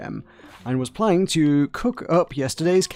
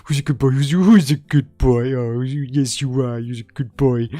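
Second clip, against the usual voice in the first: lightly voiced cooing dog praise, a bit louder; imitating the game voice; 4 dB louder than usual. Streamer mimics the game's endless dog-petting audio in mild cooing praise. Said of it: "all you can hear in the background is".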